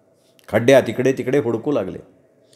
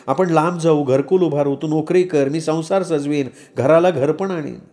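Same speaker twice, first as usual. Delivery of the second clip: higher-pitched woman pleading with her lover; high, imploring woman's voice; Shahnaz; 3 semitones higher than usual. Acted. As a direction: plead not to be rejected, then dream aloud. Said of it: "Shahnaz म्हणाली".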